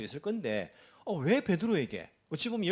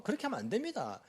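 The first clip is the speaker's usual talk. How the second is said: raised pitch, pretend indignation; mock upset protest; 2 semitones higher than usual. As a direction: imitate congregants pleading with the pastor. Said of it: "화를 내면서".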